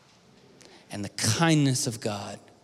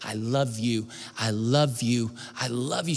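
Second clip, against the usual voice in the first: building repetition; 2 semitones lower, slower than usual. Retold or imitated. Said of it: "saying it over and over".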